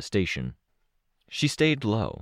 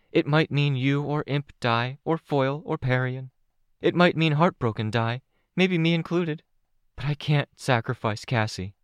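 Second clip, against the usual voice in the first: put-on a much higher girl's voice, earnest and steady; teenage girl, earnest; 7 semitones higher than usual. A narrator's reading. Chastity explains her vote.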